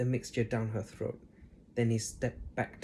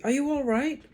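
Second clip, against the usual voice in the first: George; 12 semitones higher, 5 dB louder than usual. A narrator's reading. George asking politely.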